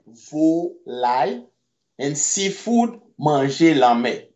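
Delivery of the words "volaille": "volaille" stretched slowly with a rising end; slow drawn-out repeat. Shown as a demonstration. Teacher stretching "volaille" slowly for students. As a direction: draw out "volaille" for learners to copy.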